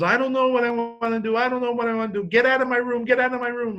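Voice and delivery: high-pitched wailing imitation of a daughter; mock hysterical crying. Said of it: "hysterical crying".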